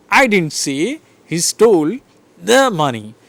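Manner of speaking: I lifted, slow delivery; stress on I. Shown as a demonstration. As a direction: lean on the word I slowly. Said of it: "So I am stressing".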